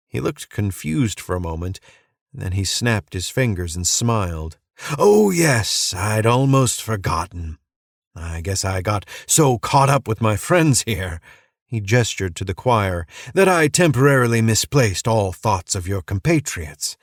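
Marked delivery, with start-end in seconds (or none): 5.0-17.0 a hint of a manic cult leader, singsong; unhinged preacher. Crazed preacher welcoming a stranger to church, lightly manic. Madman recalls the note.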